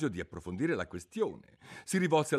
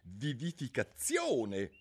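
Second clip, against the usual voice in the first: griffin's challenge; 6 semitones higher, 5 dB louder than usual. Acted. Griffin quizzes Alice.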